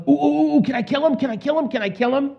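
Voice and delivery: put-on high, eager "Ooh, ooh, ooh" like a kid begging for a treat; king pleading with Elisha, bouncing with excitement; eager excited. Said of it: "was he all excited?".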